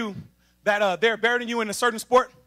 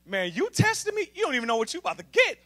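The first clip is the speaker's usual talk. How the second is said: cocky challenge; 4 dB quieter than usual. Acted. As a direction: taunt them as if insulted. Acting out God answering a challenge.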